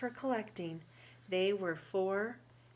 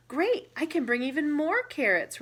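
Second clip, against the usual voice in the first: smiling; 6 semitones higher, 9 dB louder than usual. Acted. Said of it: "Rabbit said with a smile".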